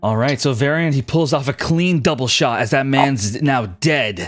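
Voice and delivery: vivid battle scene-setting, driving on; dramatic game master narration. Acted. Game master describing an arrow kill to the archer, dramatic narration.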